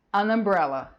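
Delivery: "An umbrella" run together, the n carried onto umbrella; an linked to umbrella. Shown as a demonstration. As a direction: say "An umbrella" as one word. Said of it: "Lembra de falar tudo junto que é mais fácil". ("An umbrella" falado tudo junto, o n ligado à palavra)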